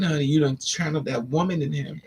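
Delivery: ordinary delivery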